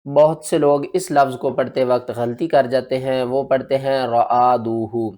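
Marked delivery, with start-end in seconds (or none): 4.1-5.1 رعادوہ with each letter split apart; wrong reading. Shown as a demonstration. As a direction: read رعادوہ choppy, letters separated. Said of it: "وہ الف کو الگ پڑھتے ہیں".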